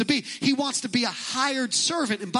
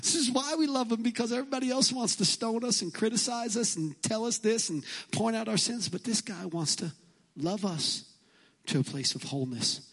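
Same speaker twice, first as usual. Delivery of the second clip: soft, tender voice of the sinners, much quieter; grateful sinners; 5 dB quieter than usual. Retold or imitated. Preacher voicing sinners praising Jesus, soft and tender. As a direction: speak softly as a sinner moved to tears. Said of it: "They're going".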